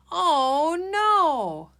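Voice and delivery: high, loud worried cry; very concerned. Shown as a demonstration. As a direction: sound alarmed that something bad happened. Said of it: "sound like you're very concerned".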